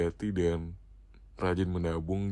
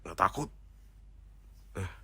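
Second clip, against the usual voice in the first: ordinary delivery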